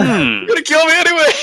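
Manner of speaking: high, squeaky pleading villain; squeaky enemy voice. Acted. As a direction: play the cornered villain, squeaking. Playing the frightened enemy, high.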